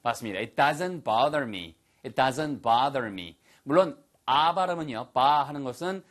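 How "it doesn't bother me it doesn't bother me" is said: American "bother" with an open "ah" and pronounced r; American accent. Shown as a demonstration. Teacher models the sentence for students, American accent. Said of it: "미국식 발음이고요".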